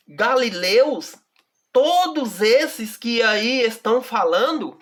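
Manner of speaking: slow, measured Bible reading with long pauses; solemn slow reading of scripture. Acted. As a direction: read the verse aloud slowly and deliberately.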